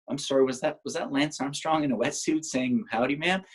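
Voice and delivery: "Howdy, ma'am" with a rising, disbelieving tune; incredulous question. Retold or imitated. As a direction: ask it amazed, pitch climbing at the end. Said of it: "she says".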